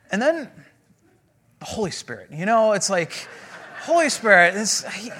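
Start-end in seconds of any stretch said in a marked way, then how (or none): none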